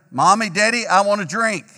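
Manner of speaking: lightly voiced child calling his parents. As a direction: call out like a kid who won't give up. Child calling again, higher.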